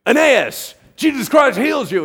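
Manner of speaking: high, full shout; hammed-up, very loud healing command; confident proclamation. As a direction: shout it like a showy faith healer. Imagines Peter's overconfident healing proclamation.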